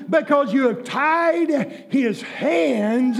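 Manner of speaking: shouted, rhythmic preacher chant; fiery preaching. Acted. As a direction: build it like a revival preacher. Rising chant of no seed.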